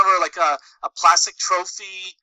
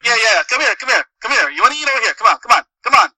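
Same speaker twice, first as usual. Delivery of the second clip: a hint of Italian-American hawker, close to own voice; toned-down Little Italy waiter; lighter Italian-American; faster than usual. Waiter coaxing diners in, mild Italian-American. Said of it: "not Joe Pesci in Goodfellas".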